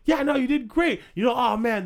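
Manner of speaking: high, eager fan voice; gushing fan. Pretend. Playing a fan stopping the host on the street, high eager gush. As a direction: play an overexcited stranger. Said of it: "We do a little role play".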